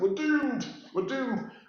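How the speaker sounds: high-pitched put-on Scottish accent. Describing an old Home Guard trainee's catchphrase, imitating a Scottish accent. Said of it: "He had a Scottish accent".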